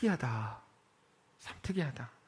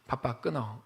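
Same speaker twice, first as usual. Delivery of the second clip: cold, clipped, lower and softer; curt brush-off; 6 semitones lower, 6 dB quieter, slower than usual. Retold or imitated. Busy mother hanging up on her own family, curt and cold. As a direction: cut the caller off short. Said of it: "엄마가 이렇게 말했대요".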